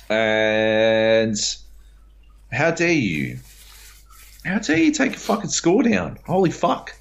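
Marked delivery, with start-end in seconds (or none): 2.5-6.9 how dare you, much higher and outraged; furious disbelief at the reviewers; outraged rant. Real, not acted. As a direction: rip into them, incredulous and furious.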